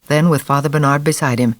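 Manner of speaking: ordinary delivery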